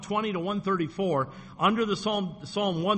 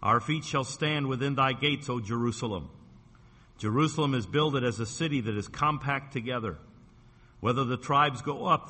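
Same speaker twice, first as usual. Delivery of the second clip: scripture reading; 3 semitones lower than usual. Acted. Pastor reading the psalm to the congregation, measured. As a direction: read it out like holy writ, unhurried.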